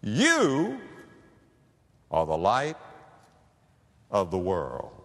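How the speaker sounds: drawn out, falling solemn quote; quoting Jesus. Acted. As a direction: let each word land slowly. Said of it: "he's saying to them".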